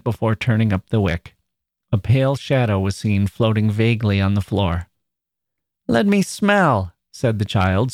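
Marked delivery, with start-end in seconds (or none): 5.9-6.9 put-on slow, high childish delight; rapturous. A narrator's reading. Child leaning to mother's flowers, rapturous. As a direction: beg dreamily in rapture, drawing it out. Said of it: "still rapturously".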